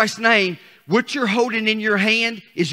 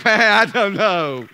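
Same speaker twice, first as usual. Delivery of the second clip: unsure listener; much slower than usual. Pretend. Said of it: "and this is like".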